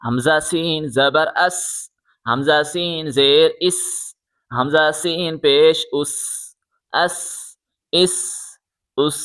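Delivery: "اس" ends in a sharp whistling s; long sibilant s closing each "اس". Shown as a demonstration. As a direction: let the s in "سین" and "اس" whistle. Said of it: "سیٹی کی آواز نکالیں".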